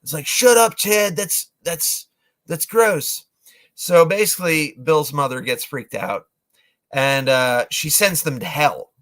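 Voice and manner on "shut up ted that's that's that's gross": annoyed. Retold or imitated. Annoyed friend snaps back.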